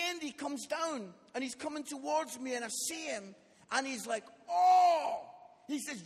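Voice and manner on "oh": loud, higher cry of delight; amazed leader. Retold or imitated. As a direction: imitate someone bowled over by a show. Leader amazed at the later show.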